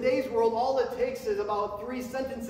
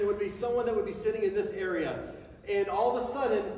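usual speaking voice

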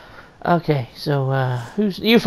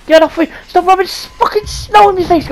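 shouting; 9 semitones higher, 5 dB louder than usual. Real, not acted. Snow rubbed in face.

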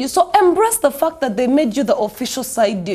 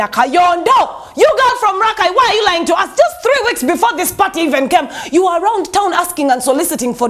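higher-pitched, indignant telling-off; mock scolding; 3 semitones higher than usual. Host confronting the singer over lying, mock-indignant scolding. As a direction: call her out in mock outrage, pitched up.

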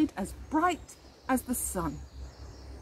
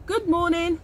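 greeting; 6 semitones higher than usual. A narrator's reading. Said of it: "to Old Man Hammer".

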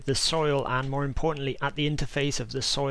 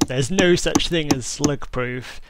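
imagined viewer's louder objection; mildly raised mock heckle at the video; mock protest; 6 dB louder than usual. Host voicing a viewer screaming at the video, mock protest. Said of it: "you've been screaming at the video".

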